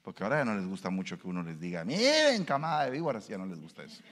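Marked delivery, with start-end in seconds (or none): 1.8-3.3 sudden loud high cry of rebuke; harsh rebuke. Retold or imitated. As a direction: call them a brood of vipers. Preacher quoting harsh rebuke. (reprensión a gritos)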